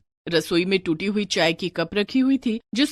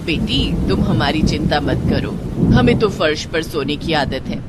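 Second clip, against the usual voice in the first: put-on lower, older mother-in-law voice; 6 semitones lower than usual. Mother-in-law tells Anita to take her friends inside, lower elder voice. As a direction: speak as the household's elder woman. Kamla reassures the girls.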